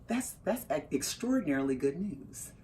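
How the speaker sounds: low, soft, stilted husband; restrained formal reply. Retold or imitated. Husband with a customer hearing great news, restrained. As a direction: imitate his measured understatement.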